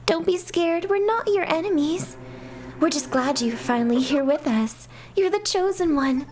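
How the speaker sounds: high, sweet soothing doll voice; eerie reassurance. Acted. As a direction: soothe her creepily. Dolls reassure her.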